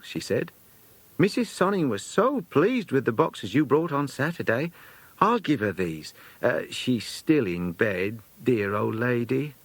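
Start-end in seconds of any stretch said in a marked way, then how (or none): 1.2-9.5 lightly voiced fussy lady companion, higher; a hint of a bustling old companion at the door; chatty companion. Companion keeps talking.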